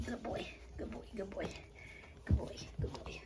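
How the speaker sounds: fading praise for a calm pup; soft soothing. Real, not acted. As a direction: lull the dog to sleep. Soothing dog down to rest.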